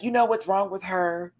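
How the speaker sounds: hushed gossip behind Tina's back; whispered gossip. Retold or imitated. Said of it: "you are now like".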